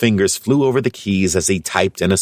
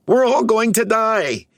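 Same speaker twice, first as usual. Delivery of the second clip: even higher, a frantic rising shriek of panic; panicked cry. A narrator's reading. Brainy repeats his doom to the others, shrill panic. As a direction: push the panic to its peak. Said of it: "he cried".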